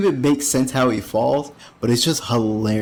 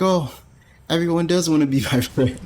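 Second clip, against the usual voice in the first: mock delighted girl; 6 semitones higher than usual. Asa's sudden happy realisation.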